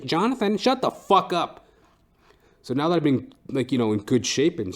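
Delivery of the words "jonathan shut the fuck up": imitated boss. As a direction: snap at him like a fed-up boss. Imagined boss telling him off.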